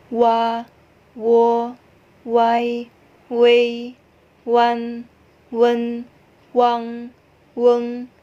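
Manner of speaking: clear, careful Mandarin vowel syllables; Mandarin vowel drill. Shown as a demonstration. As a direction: model each syllable crisply for the class to repeat. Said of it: "Kita ulangi sekali lagi ya". (latihan lafal vokal Mandarin yang jelas)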